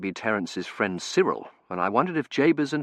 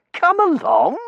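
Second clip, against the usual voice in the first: put-on higher, brisk young man's voice; young Terence, brisk; 8 dB louder, slower than usual. A narrator's reading. Terence hurrying the narrator along, eager young man voice.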